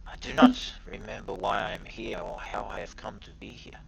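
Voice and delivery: dazed stranger, hushed and lost; confused man waking, barely above a whisper; whispery amnesiac. Acted. GM voices amnesiac Cage.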